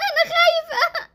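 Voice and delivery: high-pitched crying voice; tearful fear. Acted. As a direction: confess fear through sobs. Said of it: "اهدي ما تعيطيش".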